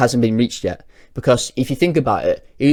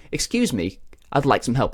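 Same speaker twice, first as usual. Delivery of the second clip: much softer, shy ask; timid request; 8 dB quieter than usual. Acted. Dan asking the pickle store manager, softly and shyly. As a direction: murmur it shyly to the shop manager.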